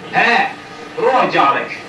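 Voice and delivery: loud, high raging yell; angry shout. Real, not acted. Gamer raging at a monster, angry shout. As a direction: bark it at the enemy.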